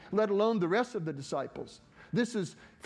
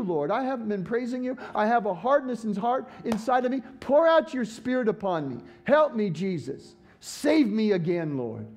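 pleading prayer; 3 semitones higher, 3 dB louder than usual. Pretend. Acted prayer of confession.

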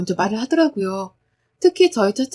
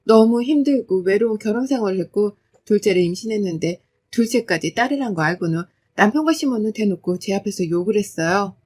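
ordinary delivery, nothing marked

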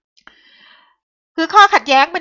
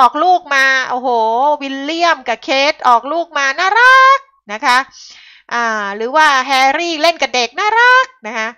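louder mocking gush over royal babies; 5 semitones higher, 7 dB louder than usual. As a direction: scoff at the royal-baby fawning. Mocking fans of European royals. (ประชดแบบเสียงดัง ล้อคนที่หลงเจ้า)

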